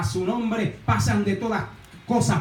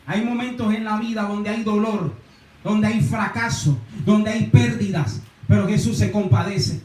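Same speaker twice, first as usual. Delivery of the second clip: rising, louder preaching build; 3 dB louder than usual. Acted. Pastor preaches to the congregation about compassion, building louder. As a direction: pastor builds to a fervent call.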